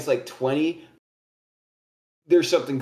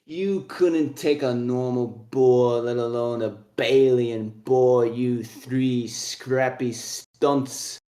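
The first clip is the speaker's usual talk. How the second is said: slow, lightly voiced dwarf put-down; scornful old dwarf; slower than usual. Old dwarf doubting the three boar hunters, slow scornful voice. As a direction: belittle them slowly as an old dwarf.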